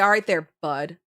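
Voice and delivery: a condescending "All right there, bud"; mock rude. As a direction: talk down to him, passive-aggressive. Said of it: "our way of being mean".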